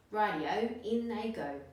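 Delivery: gleeful call. Acted. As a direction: cheer it out eagerly. Dingo agrees gleefully.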